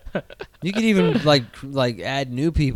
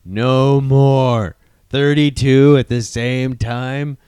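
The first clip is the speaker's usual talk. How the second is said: louder, frantic overwhelmed rant; overwhelmed fan; 5 dB louder than usual. Retold or imitated. Fan at Infinity War overwhelmed, louder and frantic. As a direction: blurt it out like a swamped fan.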